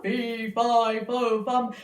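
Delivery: the giant wakes and finds his harp gone, roaring; raging giant. Acted. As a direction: storm about demanding your treasures. Giant chasing.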